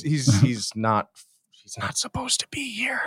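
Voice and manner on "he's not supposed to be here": playful conspiratorial whisper; breathy stage whisper, high. Pretend. Joking secret aside about guest.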